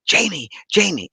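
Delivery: a hint of a mother's light call; light motherly voice. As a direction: call a pet name as his mother. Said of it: "she came through with a light".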